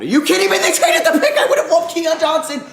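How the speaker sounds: high, loud laughing outrage; disbelieving laugh. Real, not acted. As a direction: laugh through the shock.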